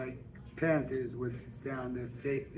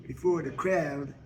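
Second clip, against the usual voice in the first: lightly voiced Suge; 2 semitones higher than usual. Suge persuades Mary Agnes to sing at Harpo's, confident. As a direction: promise her the crowd. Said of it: "she say".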